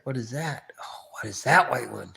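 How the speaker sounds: curious whisper; hushed wondering question. Real, not acted. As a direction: whisper the question while peering at something far away. Squinting at far cars.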